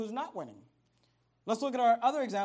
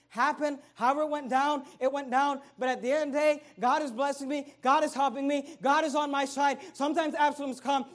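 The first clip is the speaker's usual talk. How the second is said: louder, higher preaching in steady repeated lines; 5 semitones higher, 7 dB louder than usual. Acted. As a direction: hammer each line like a declaration. Preacher builds the declaration.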